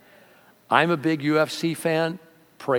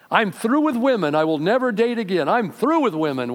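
bitter vow; 6 semitones higher, 4 dB louder than usual. Retold or imitated. Voicing a bitter young man.

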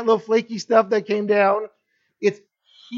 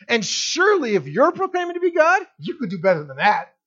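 mock challenge; 2 semitones higher than usual. Crowd daring Jesus to outdo Moses, mock challenge. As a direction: goad him as an unimpressed doubter.

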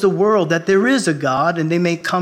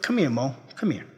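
gentle call; 3 semitones lower, 7 dB quieter than usual. Retold or imitated. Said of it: "the Lord said".

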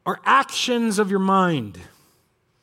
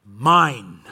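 God crying out; 7 semitones lower, 5 dB louder than usual. Retold or imitated. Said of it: "does not cry out".

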